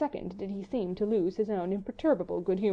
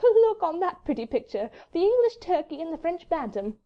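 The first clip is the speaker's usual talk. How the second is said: much higher, lilting, amused voice; merry lady; 9 semitones higher, 4 dB louder than usual. A narrator's reading. Wife poking fun at two rivals, merry and high. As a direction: lift it high and make gentle fun. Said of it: "merry, infectious laughs".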